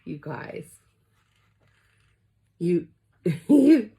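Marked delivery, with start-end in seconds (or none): 2.6-3.9 laughing. Real, not acted. Laughing while overwhelmed.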